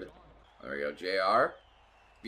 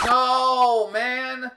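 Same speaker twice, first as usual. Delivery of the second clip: high, loud groan of frustration; frustrated cry; 10 semitones higher, 7 dB louder than usual. Real, not acted. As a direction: wail it out at the glitch. Goal replay loops again.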